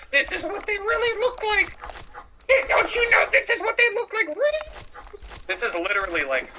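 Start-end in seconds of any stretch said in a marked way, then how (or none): 0.1-4.7 mock outrage. Real, not acted. Mocking fake Crusader art.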